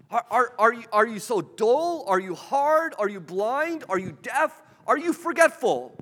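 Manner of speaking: high, loud, exasperated questions; frustrated questions. Retold or imitated. Jesus rebuking his dull disciples, exasperated and loud. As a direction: fire each question like a rebuke. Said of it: "his frustration emerges".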